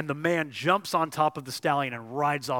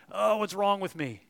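a touch of higher, louder exasperated groan; mock despair; 7 semitones higher, 6 dB louder than usual. Preacher voices a tempted listener, mild mock despair. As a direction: play the tempted one despairing.

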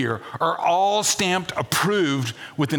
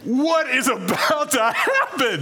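mock alarm; 10 semitones higher, slower than usual. Mock alarm after spouse quote.

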